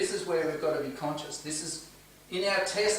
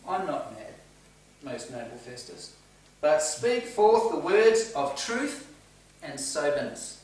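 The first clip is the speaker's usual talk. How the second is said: respectful tone; slower than usual. Retold or imitated. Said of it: "in a very respectful tone".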